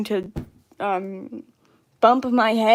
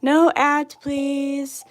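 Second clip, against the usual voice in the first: loud, higher, drawn-out whiny begging; mock pleading; 4 semitones higher, 7 dB louder, slower than usual. Streamer begging the ads to stop, mock pleading. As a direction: plead with drawn-out words, playfully exasperated.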